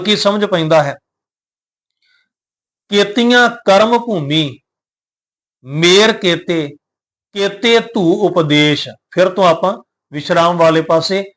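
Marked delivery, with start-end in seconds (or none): 2.9-8.9 slow, measured recitation of the verse; scripture recitation. Shown as a demonstration. Teacher reciting Gurbani to the sangat, slow and measured. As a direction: intone the line with care.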